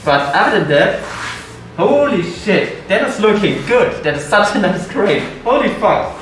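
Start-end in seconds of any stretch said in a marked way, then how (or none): 1.8-6.1 excited. Real, not acted. Amazed at walnut grain.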